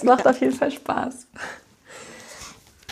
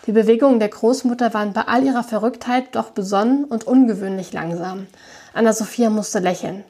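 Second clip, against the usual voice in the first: reading a novel aloud with light character voices; story narration. A narrator's reading. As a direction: tell the story to listeners. Liest den Roman vor. (vorgelesene Erzählung)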